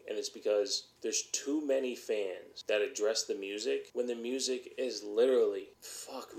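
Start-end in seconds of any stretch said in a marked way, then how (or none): 5.8-6.4 breathy whispered fuck under the breath; a hushed swear slipped out mid-rant; whispered curse. Real, not acted.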